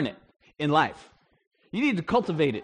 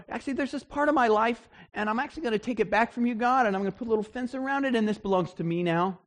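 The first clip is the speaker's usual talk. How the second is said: higher and quick, a bit defiant; snatch it back like a stubborn child; possessive believer; 6 semitones higher than usual. Retold or imitated. A Christian telling God this part is theirs now, defiant.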